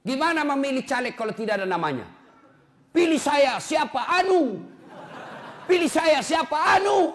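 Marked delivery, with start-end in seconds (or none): 2.9-7.1 higher, louder hammed-up candidate; laughing parody of a candidate yelling; mock campaign shout. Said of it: "mock election candidate calling".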